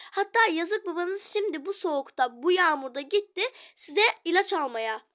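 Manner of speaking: loud, guilt-tripping scold. Acted. Mother loudly scolding children about father. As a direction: make them feel sorry.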